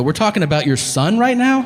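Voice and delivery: high, disbelieving question; incredulous. Retold or imitated. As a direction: ask it in shock. Shocked question.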